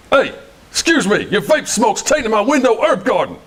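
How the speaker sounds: slow, lightly put-on Brooklyn complaint; a touch of a Brooklyn neighbour griping; mild Brooklyn accent. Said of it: "Brooklyn, New York".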